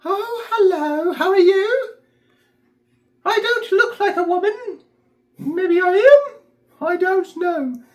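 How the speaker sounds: very high, loud falsetto; fluting busybody lady, drawn out. Shown as a demonstration. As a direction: trill it way up in falsetto. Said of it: "Think of a busybody lady".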